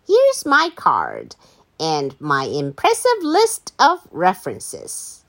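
lightly voiced, self-important lady introduction; babysitter lady. Babysitter introduces herself to Dogman, lightly put-on lady voice. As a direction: announce your credentials with lilting emphasis. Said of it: "And she says".

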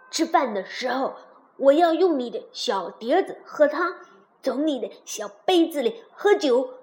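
lowish frog voice, punctuated with croaks; wheedling frog. Acted. Frog asks to share princess's dishes, wheedling.

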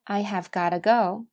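"have" in full, then "gotta" with a flapped t; weak-form gotta. Shown as a demonstration. Teacher models the four pronunciations, weak form. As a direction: link "gotta" into one word after "have". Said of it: "看一下这四句的发音".

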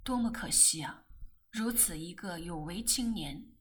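sighing. Acted. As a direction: breathe out the pity. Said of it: "更生叹息".

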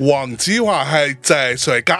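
lightly voiced slow comedian line; Wong Tsz-wah impression. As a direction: say it slow and low like a stand-up. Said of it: "你那天说黄子华那什么来着？".

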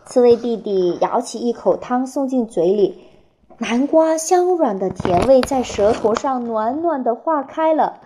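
put-on reading a picture book to children; expressive storytelling, phrase by phrase with clear pauses; 给孩子读故事. A narrator's reading. (绘声绘色地给孩子讲故事)

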